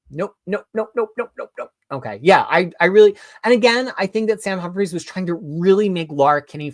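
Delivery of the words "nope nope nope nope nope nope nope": string of higher-pitched little nopes; playful, repeated rejection; comic refusal. Acted. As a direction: back away from the idea, nope after nope. Refusing a writer after the news.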